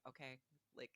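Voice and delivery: calm reassurance. Retold or imitated. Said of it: "he's just a very calm".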